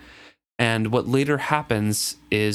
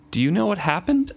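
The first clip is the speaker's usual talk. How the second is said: demanding; 8 semitones higher than usual. Acted. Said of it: "I demanded".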